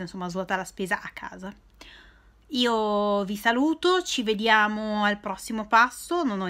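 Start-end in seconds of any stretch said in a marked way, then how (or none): 0.0-1.5 whispering. Real, not acted. Muttered self-correction.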